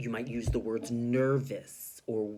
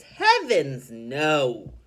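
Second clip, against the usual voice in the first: cheerful; 11 dB louder, much slower than usual. Shown as a demonstration. Teacher voicing Missus Teaberry reassuring Mister Potter. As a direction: cheer him up warmly. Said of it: "trying to cheer him up".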